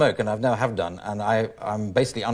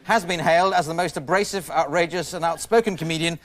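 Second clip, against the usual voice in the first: host's introduction; 5 semitones higher than usual. Real, not acted.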